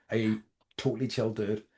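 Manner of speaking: dry, understated sarcasm; sarcastic. Real, not acted. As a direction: slip it in deadpan, not meaning it. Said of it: "That was being sarcastic there".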